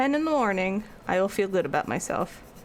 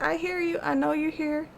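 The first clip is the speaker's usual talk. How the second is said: gentle; 6 semitones higher than usual. Retold or imitated. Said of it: "I'd have to be very gentle with him".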